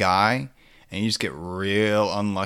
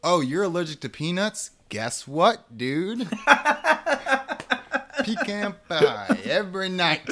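gloating laugh; 7 semitones higher, slower than usual. Pretend. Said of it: "Be like".

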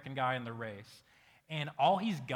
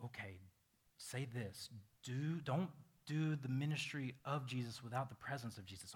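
soft hushed whisper, rehearsing a line; whispered to self; 2 semitones lower, 8 dB quieter than usual. Retold or imitated. Preacher quietly rehearsing sermon notes to himself, whispering. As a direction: barely breathe it, reading your own notes.

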